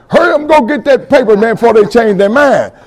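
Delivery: high, loud, urgent yell at the lawyer; retold scream. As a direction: shout it to the attorney before the deal disappears. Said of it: "I screamed at him".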